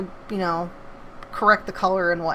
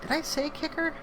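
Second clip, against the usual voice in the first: surprised; 9 semitones higher, 6 dB quieter than usual. Real, not acted. Surprised at her own word.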